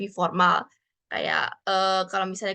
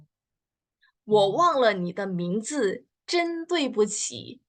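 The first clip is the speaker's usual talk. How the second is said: slow, even repeat with 对不起 raised; slow repeat of the model; much slower than usual. Shown as a demonstration. Teacher repeats the sentence slowly for students to echo. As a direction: say it again slowly for them to copy. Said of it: "contohnya gimana nih".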